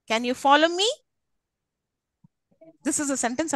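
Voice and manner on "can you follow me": "follow" stressed, tune climbing through "me". Shown as a demonstration. Teacher repeats test question for class, stress on "follow". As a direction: ask higher, leaning on "follow". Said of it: "where am I stressing?".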